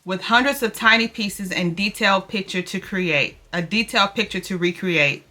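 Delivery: earnest read-aloud of a devotional, slowing at the end. Real, not acted. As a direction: read the text like a gentle sermon. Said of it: "I'm gonna read it really quickly to y'all".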